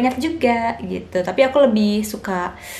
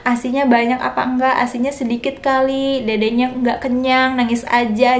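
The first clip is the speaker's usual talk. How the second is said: slightly higher prying mock voice; nosy question; 3 semitones higher than usual. Visitors ask a new mother about her milk, lightly prying mock. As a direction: lightly mimic the hurtful question. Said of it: "jangan ditanya".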